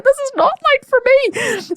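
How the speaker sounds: high, slow strained whine; high slow whine of disbelief; strained protest. Retold or imitated. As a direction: drag it out in protest.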